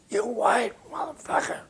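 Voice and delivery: high, strained mock Miles voice; a sneering jazzman put-on; imitating Miles. Miles insulting producer in anecdote.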